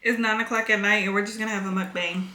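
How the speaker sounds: talking through a mouthful of food; mouth full. Real, not acted. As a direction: speak around a bite of dinner. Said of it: "I'm just eating my dinner".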